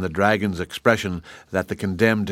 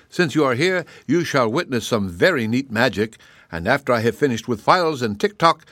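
a smug king showing off his power; gloating gnome king; 3 semitones higher than usual. Acted.

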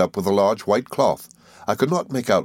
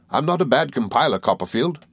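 high, buoyant assurance; cheerful confidence; 7 semitones higher than usual. A narrator's reading. Traddles speaking of his encyclopedia work, cheerfully confident. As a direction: state it with modest, cheery confidence. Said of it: "preserving the same air of cheerful confidence".

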